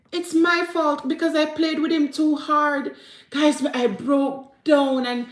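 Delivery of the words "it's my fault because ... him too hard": put-on a higher, mildly tearful child's voice; imitated crying child. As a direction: retell the girl's tearful confession, lightly voiced. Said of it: "when me hear she a crying and say".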